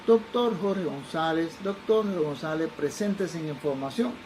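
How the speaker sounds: slow, drawn-out loudspeaker call; airport announcement. Retold or imitated. Airport speaker paging the doctor, slow announcement. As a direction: page him slowly like an airport PA.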